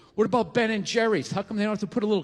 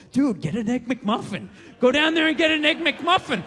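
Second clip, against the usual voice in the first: tempting inner voice; 3 semitones higher than usual. Retold or imitated. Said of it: "this other voice going".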